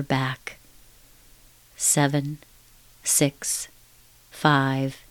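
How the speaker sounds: slow soothing countdown. Acted. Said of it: "I'm going to count now".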